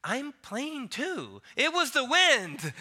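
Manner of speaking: high, drawn-out petulant retort, building to loud; mock-mature childish insistence. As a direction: argue back like an indignant child. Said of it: "in the most mature voice".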